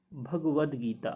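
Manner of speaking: भगवद गीता said slowly with a clear voiced द at the end of भगवद; correct pronunciation. Shown as a demonstration. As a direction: model भगवद गीता slowly, ending भगवद on द not त. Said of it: "शुद्ध शब्द होता है".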